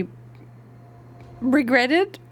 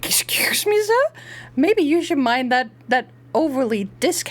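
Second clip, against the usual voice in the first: high mock-indignant question; mock offended; 5 semitones higher than usual. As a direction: play the offended lady.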